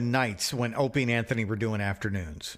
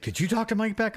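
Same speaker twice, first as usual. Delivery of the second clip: imitating friend; 10 semitones higher than usual. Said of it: "He's like".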